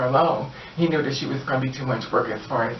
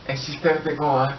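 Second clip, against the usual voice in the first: ordinary delivery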